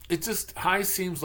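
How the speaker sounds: lifting into an upbeat hi; upbeat quote. Retold or imitated. Explaining to the teacher why hi is upbeat, bright. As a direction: mimic a cheery person's answer. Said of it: "The answer I usually get is".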